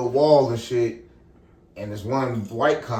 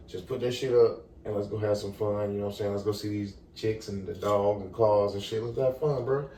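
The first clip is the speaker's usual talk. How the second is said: low, soft, easygoing persuasion; coaxing a friend; 5 semitones lower, 8 dB quieter than usual. Retold or imitated. Young man calming his friend to avoid trouble, coaxing. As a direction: talk a buddy down quietly.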